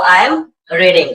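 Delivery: very slow, each word laid out for repeating; teacher modelling a line word by word, slowly; slow model sentence. Shown as a demonstration. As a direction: say it slowly so the class can copy. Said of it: "आपको इसको मेरे साथ बोलना होगा".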